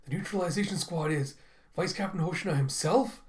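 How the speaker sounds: mildly stunned character voice; incredulous question. Acted. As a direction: ask it in acted astonishment. Kokoro learns who leads squad.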